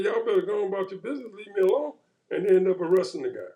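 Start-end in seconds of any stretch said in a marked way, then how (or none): 0.0-1.9 annoyed retort. Retold or imitated. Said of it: "the guy got pissed off and said".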